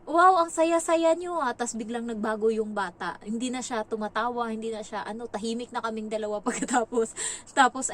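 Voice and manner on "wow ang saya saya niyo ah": loud, high, slow sarcastic remark; sarcastic mother. Retold or imitated. The mother walks in on them laughing, slow and sarcastic. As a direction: drawl it out with a sneer. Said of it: "sabi niya".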